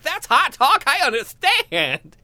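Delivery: high, loud mock seductive purr; sexy bedroom voice. Comic sleazing at a woman in a mock sexy voice. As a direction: ham up a seductive come-on. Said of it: "That's my sexy bedroom voice".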